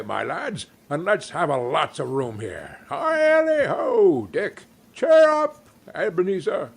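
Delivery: high, loud cheerful calls; merry cry. A narrator's reading. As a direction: whoop and rally the boys. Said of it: "cried old Fezziwig".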